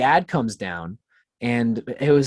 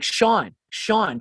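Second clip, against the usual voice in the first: worried mom calling; 8 semitones higher than usual. Retold or imitated. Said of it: "my mom is just like".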